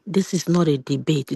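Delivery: usual speaking voice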